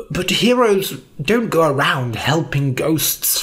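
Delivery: lightly voiced old man, slowing down; old wizard's doubt. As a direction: break it to the boy gently. Elric gently doubts Norm.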